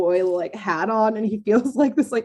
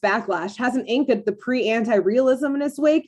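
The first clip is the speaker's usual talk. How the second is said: put-on New York greaser accent; 4 semitones higher than usual. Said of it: "in that, like, New York accent".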